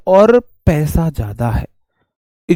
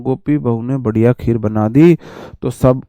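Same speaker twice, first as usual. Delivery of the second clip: scheming daughter-in-law; 5 semitones lower than usual. Retold or imitated. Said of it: "मैं आपको बोल के बता रहा हूँ".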